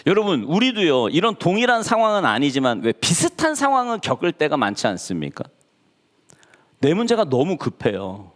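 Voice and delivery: ordinary talk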